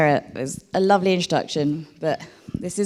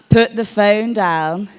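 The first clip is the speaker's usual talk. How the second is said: louder, slow, playful telling-off; mock-stern order; 3 semitones higher, 5 dB louder than usual. Host jokingly orders an audience member to put the phone away, mock-stern. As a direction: tease them with a slow, firm command.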